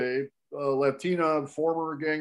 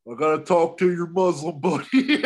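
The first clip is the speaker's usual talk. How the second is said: laughing retold concession; 4 dB louder than usual. Retold reluctant answer, breaking into laughter.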